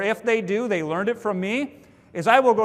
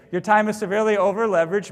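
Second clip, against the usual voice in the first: tiptoeing; faster than usual. Shown as a demonstration. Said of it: "I used to say it kinda like this".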